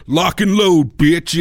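mock tough action sidekick; loud gung-ho soldier. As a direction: bark it like a cheesy action sidekick. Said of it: "like, black guy voice".

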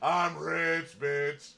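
high, loud celebratory whoop; hammed-up drawn-out crowing; gleeful boasting. John celebrating his new takeaway, gleeful boasting.

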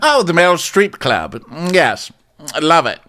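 high, grand put-on voice; hammed-up haughty approval; Karen. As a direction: savor it with theatrical poshness.

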